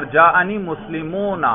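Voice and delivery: مسلمون slowly, with an audible long "oo"; pronounced waw. Shown as a demonstration. Teacher showing the plural's waw is pronounced, pronounced waw. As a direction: lengthen the end of مسلمون, muslimoon. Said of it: "اس پر ہم باقاعدہ تلفظ کر رہے".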